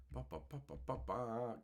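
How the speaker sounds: soft run of quick ba-ba sounds; absent-minded ba-ba-ba while searching; idle ba-ba filler. Real, not acted.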